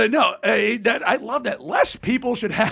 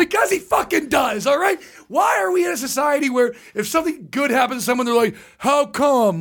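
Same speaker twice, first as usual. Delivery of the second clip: raised, shouting rant; exasperated rant; 2 semitones higher than usual. Retold or imitated. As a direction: yell it out in frustration. Ranting reply to friends.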